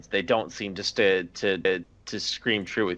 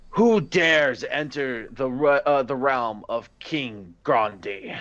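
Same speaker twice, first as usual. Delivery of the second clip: booming voice; 2 semitones higher, slower than usual. Acted. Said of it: "in a booming voice that cascades through the room".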